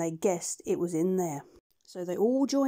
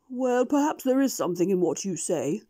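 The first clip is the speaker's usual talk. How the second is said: mumbling doctor; 4 dB louder than usual. Acted. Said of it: "mumbled the doctor".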